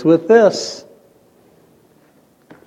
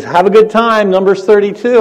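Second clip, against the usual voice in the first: higher, louder, pointed mom voice; a mother calling after her teen, higher; mom's parting warning; 7 semitones higher, 5 dB louder than usual. Retold or imitated. Mom warning her teenage son at the door, higher and louder. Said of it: "She goes".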